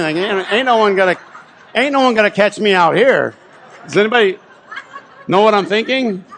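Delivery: loud, high and laughing; gleefully threaten, barely holding back laughter; laughing, mock defiant. Real, not acted. Joking about telling the lady off.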